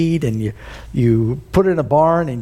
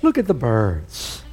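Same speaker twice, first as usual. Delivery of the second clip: incredulous repeat; 5 semitones lower, slower than usual. Retold or imitated. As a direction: repeat it as if you can't believe what you're hearing. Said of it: "And you're telling me".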